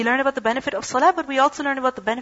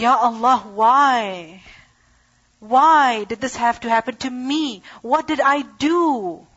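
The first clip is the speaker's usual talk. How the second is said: louder, lamenting plea, last line drawn out slowly; mock crying lament; 4 dB louder, slower than usual. Impatient man with cut foot cries to Allah, hammed-up wailing. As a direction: act out a complainer wailing to God. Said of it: "he's crying and saying".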